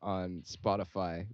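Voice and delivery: put-on light Singlish accent, upbeat plug. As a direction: Singaporean English lilt, lightly done. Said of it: "if you guys want me to do my Singlish accent again".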